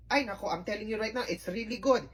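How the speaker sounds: ordinary delivery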